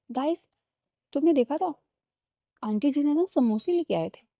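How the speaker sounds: gushing to the gang about snacks; excited chatter. Acted. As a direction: burst in with eager news. Excited friend announcing samosas.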